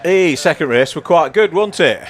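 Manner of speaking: put-on northern English accent; chirpy Yorkshire-style northern accent. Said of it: "Is that your attempt at a northern accent".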